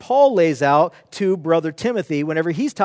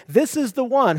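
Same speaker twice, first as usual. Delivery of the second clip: "This is the one" pitched higher for emphasis; emphatic, raised "This is the one"; 4 semitones higher than usual. Shown as a demonstration. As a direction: stress THIS IS THE ONE, voice lifted. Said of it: "Remember, it's very emphatic".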